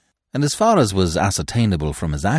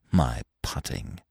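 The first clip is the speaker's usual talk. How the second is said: low, soft, slow hollow echo; hollow mirthless; 8 semitones lower, 7 dB quieter, slower than usual. A narrator's reading. Freddy bitterly repeating Eve's question, low and hollow. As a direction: say it dead and hollow, slowly. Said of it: "hollow, mirthless laugh".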